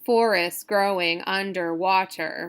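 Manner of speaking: "Forest growing underwater" in alternating strong and weak beats; scansion reading. Shown as a demonstration. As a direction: stress the first syllable of "Forest" and "growing". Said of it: "this is all iambic here".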